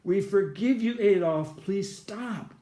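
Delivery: mild imitated wail, pleading; understated retold cry for mercy; retold wailing plea. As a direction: plead as the victims, without full screaming. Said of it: "they were screaming and crying and wailing".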